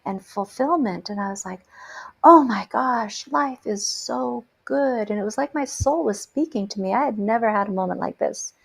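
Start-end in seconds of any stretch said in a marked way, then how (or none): 2.2-5.1 slow, awed and joyful; overcome with joy. Retold or imitated. Driving on a spring day, slow awed joy. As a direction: savour it like a sudden gift. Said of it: "overcome with this sense of joy".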